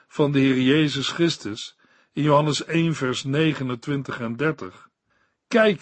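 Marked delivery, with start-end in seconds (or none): 5.5-5.8 exclaimed. Acted. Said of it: "riep hij".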